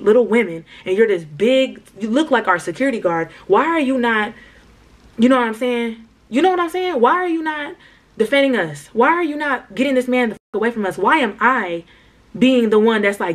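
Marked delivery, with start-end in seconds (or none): 6.3-9.2 much higher, insistent; high emphatic ask. Real, not acted. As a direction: push the question up high for emphasis. Rhetorical ask to audience.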